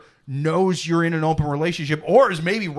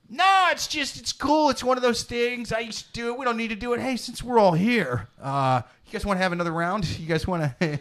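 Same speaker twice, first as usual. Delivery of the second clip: sneaky husband; 5 semitones higher than usual. Retold or imitated. To the others in the room, a husband slyly playing it casual. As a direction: play it casual like a sly husband hiding his plan. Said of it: "doing the whole".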